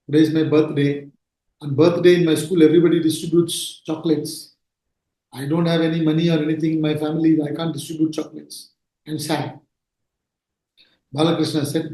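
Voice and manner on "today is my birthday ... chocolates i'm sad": put-on low, subdued retelling of a sad boy; a little sad. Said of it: "He was little sad".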